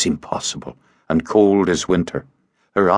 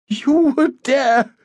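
gurgling swamp creature; slower than usual. A narrator's reading. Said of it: "Her voice gurgled".

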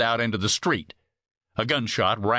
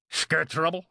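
higher-pitched, slurred character voice; drunken slur; 6 semitones higher than usual. A narrator's reading. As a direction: slur it like a drinker at the bar. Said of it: "O'Brien slurred".

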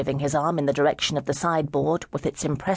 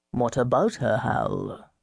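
gentle; 3 semitones lower, slower than usual. Acted. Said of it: "Sir Isaac asked gently".

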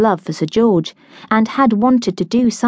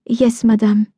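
put-on a light French accent, timid; hint of a scared French girl; 3 semitones higher than usual. A narrator's reading. French girl to Hannah, lightly accented and timid.

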